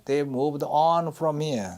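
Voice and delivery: "on" drawn out and stressed. Shown as a demonstration. Teacher models the verse for students, stress on "on". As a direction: slowly, lean on the word "on". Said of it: "on에 강세가 들어가죠".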